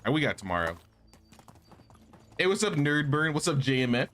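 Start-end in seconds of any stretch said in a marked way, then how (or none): none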